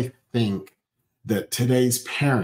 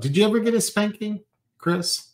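excited question; 10 semitones higher than usual. Real, not acted. Excitedly asks co-host.

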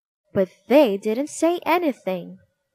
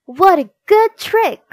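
laughing; 9 semitones higher, 9 dB louder than usual. Acted. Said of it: "laughed everyone".

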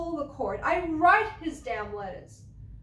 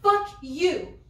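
"Fuck you" flung out louder and higher, rising on "Fuck"; louder curse; 5 semitones higher, 5 dB louder than usual. Acted. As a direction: repeat "Fuck you" harder, really meaning it. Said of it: "I mean it".

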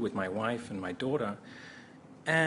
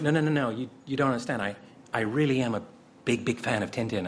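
insistent plea; 4 dB louder, faster than usual. Retold or imitated. Retold insistent plea to director.

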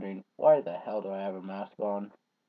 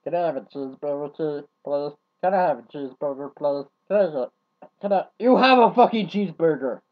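mocking whiny begging to furious yell; 3 semitones higher, 7 dB louder than usual. Mocking Roblox players begging for cheeseburgers, building to a yell. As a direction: start as a mock pleading request, then build up and snap into a loud angry shout. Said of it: "Just going".

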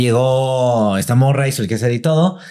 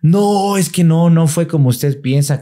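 higher, mildly protesting denial; pleading maid; 6 semitones higher, slower than usual. Retold or imitated. The maid denying the theft to doña Mode, higher and pleading. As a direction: protest your innocence to the lady.

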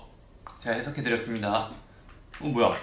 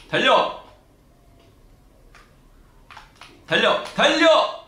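high shouted run run; yelling from the sidelines; 10 semitones higher, 5 dB louder, slower than usual. Real, not acted. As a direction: yell at the screen to run. Urging character to run.

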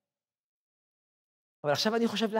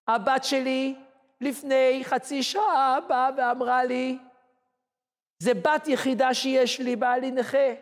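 slow tearful; 5 semitones higher, slower than usual. Retold or imitated. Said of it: "והיא פורצת בבכי קורע לב".

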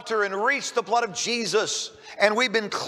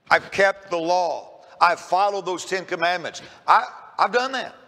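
mildly cocky, imitated self-assurance; measured, emphatic boasting, lightly acted; smug, confident; 2 semitones lower than usual. Rich young ruler boasts to Jesus of keeping the law, smug. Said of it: "pretty smug, pretty confident, almost to the point of being cocky".

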